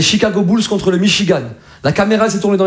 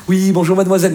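classy Parisian flirt. Acted. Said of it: "Le mec, il est là".

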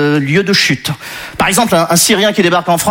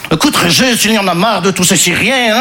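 put-on light Belgian accent, pitch a bit up; 4 semitones higher than usual. Grocer confiding to Régis in a hint of Belgian accent. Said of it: "je prends l'accent belge".

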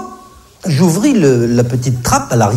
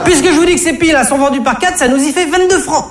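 much higher, huffy cashier voice; brazen cashier; faster than usual. Acted. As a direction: brush him off like an annoyed shopgirl. La caissière insiste. (caissière effrontée, voix beaucoup plus aiguë)

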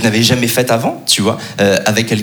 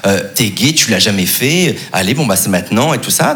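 inner pep talk; 4 semitones lower than usual. Retold or imitated.

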